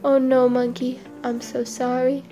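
subdued apology, slowing and softening; apologise, sinking at the end; sorry crocodile. Acted. Crocodile apologising to betrayed monkey, remorseful.

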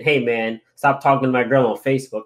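lightly voiced robot caller; a hint of a flat robot voice. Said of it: "a robot voice saying".

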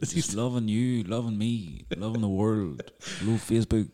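high-pitched mimicry of a gushing livestreamer; Owen Rowe. Acquaintance gushing love to Facebook, high put-on impersonation. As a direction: gush to the online followers in a high put-on voice. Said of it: "how the fuck is Owen Rowe".

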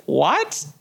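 uncomfortable, balking mock reply; Aaron. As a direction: imitate someone recoiling from the suggestion. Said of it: "He was so uncomfortable".

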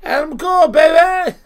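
loud, high mock British announcer shout; William Regal. Imitating a British wrestler's catchphrase delivery, loud impression. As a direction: holler it with a put-on British accent. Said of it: "how would William Regal say".

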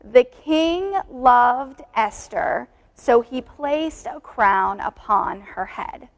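put-on very slow, drawn-out recitation for children; slow call-and-response. Shown as a demonstration. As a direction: lead the kids word by word. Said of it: "Will you repeat it with me?".

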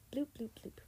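imitated electronic bloops; phone bleep. A narrator's reading. Narrator mimicking the phone as the searcher gets close, bleeps. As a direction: voice three little phone alert sounds. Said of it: "sounded with a single bleep".

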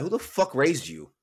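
retold indignant demand; mildly worked-up, drawn-out challenge; retold upset. Angry shopper turning on a stranger behind him, indignant. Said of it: "I was really upset".

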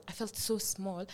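quiet, slow so small. Real, not acted. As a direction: let so small fade out, small and slow. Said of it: "felt like an insignificant small child".

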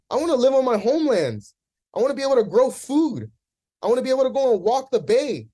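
emotional. Real, not acted. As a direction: let the feeling push the voice up and out as you go. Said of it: "I'm getting emotional right now".

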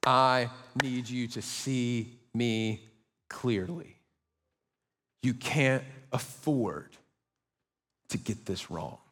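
slow, low, hushed voice of God; God urging David, slow, low and grave. Acted. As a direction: speak as God, slow and deep. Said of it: "God, through Nathan, is saying to David".

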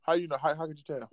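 talking while chewing; words round a bite of food; mouth full. Real, not acted. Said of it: "are you eating a fucking sandwich".

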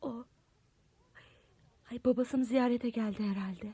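hushed whisper, peeking out. Acted. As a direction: whisper so he can't hear. Spying on ex from window.

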